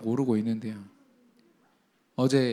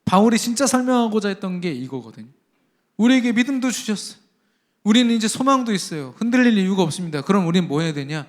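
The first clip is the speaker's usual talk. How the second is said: louder, higher pulpit voice building up; full-force preaching; 4 semitones higher, 6 dB louder than usual. Acted. Pastor exhorting his congregation, preaching at full force.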